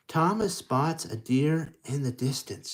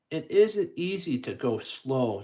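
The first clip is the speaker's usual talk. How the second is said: lightly voiced Thomas; 4 semitones higher, 6 dB louder than usual. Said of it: "Thomas says".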